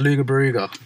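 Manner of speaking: "Luga Baruga" as LOO-guh-ba-ROO-guh; "Luga Baruga" with hard g and oo sounds; mock mispronunciation. Shown as a demonstration. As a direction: echo the silly misreading "Luga Baruga". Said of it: "that's the best one".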